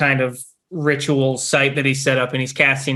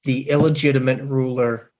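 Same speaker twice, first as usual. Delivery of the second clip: solemn message. Acted. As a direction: deliver it like a distant magical message. Priest's magical sending message.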